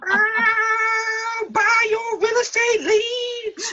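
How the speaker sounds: high, slow laughing punchline. Real, not acted. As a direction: crack up while getting the line out. Laughing through a joke.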